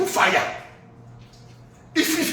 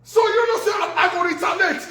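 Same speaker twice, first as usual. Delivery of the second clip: angry shout; 6 semitones higher than usual. Real, not acted. Threatening the poster with a high angry shout. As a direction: shout it as a warning.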